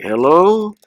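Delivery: high, drawn-out phone greeting; Terry Funk. Retold or imitated. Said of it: "that voice, so he was like".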